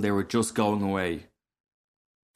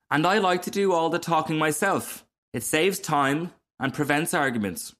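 lightly voiced frog, higher and self-pleased; complacent frog; 6 semitones higher than usual. Frog defending doing all the talking, complacent. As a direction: explain it with airy self-satisfaction.

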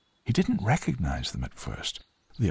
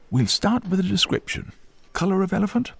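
high, louder desk sergeant voice; raised, businesslike character voice; police sergeant taking details; 12 semitones higher, 5 dB louder than usual. A narrator's reading. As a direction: ask it like an officer filling in a form. Sergeant takes down a description.

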